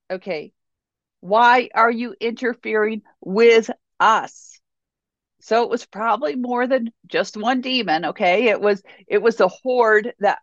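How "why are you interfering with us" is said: slow reread leaning on "us"; stress on us. Shown as a demonstration. To the congregation, pointing out the demon's "us", slow emphasis. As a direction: draw out "Why are you interfering with us?" and land on "us". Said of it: "Note the us".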